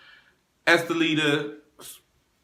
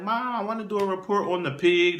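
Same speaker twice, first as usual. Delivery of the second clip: imitating little daughter; 6 semitones higher than usual. Daughter voiced in retelling.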